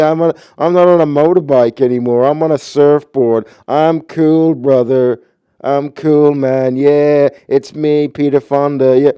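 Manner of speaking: high, loud stoner surfer-dude voice; Peter Fonda impression. Mocking Peter Fonda in Escape from LA, high loud dude voice. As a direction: ham up a spaced-out surfer dude, pitched high. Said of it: "takes the same persona in Escape from L A".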